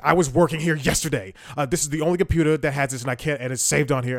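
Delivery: loud, indignant mock rant, fast at the end; imitating her loud tone. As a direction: replay the coworker snapping loudly over a computer. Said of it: "she's talking in a loud tone".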